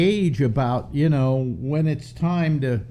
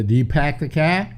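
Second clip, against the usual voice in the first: Boston accent, dropped r in car. Shown as a demonstration. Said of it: "only thing I can do in Boston accent is pack the car".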